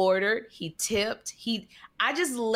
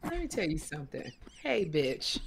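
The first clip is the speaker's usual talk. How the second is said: tough Kim voice; 7 semitones lower, 8 dB quieter than usual. Pretend. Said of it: "Now, do be Sherry".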